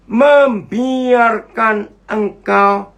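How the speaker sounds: heavily drawn-out words with gaps; very slow verse reading. Real, not acted. Preacher reads verse to congregation, very slow and drawn-out. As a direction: stretch every syllable of the scripture.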